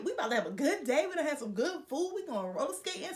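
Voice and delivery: lightly hyped retelling, pitch lifted; excited to head out for a good time. Retold or imitated. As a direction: act out being hyped for the night. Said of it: "I'm like, "Hype".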